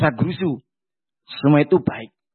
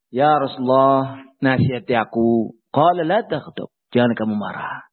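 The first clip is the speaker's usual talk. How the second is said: pleading petitioner; 6 semitones lower than usual. Acted. Third request and reply.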